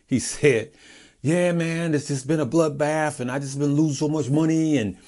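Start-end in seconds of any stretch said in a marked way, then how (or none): 1.2-5.0 lightly voiced friend, pitched up, slurring "Sue's ass"; telling viewers how a stock buddy moaned, light imitation; imitating a friend. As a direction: mimic a stock buddy's moaning, a touch higher. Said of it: "he said it just like this".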